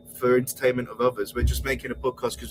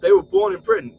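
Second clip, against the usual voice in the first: much higher mocking imitation; mock quote. Quoting a rival's claim to British roots, mocking. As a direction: parrot his claim in a high, silly voice. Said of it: "when he's saying".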